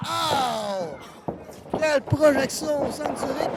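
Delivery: wrestling commentator. Acted. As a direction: ride the action as it happens. Live wrestling play-by-play. (commentateur de catch survolté)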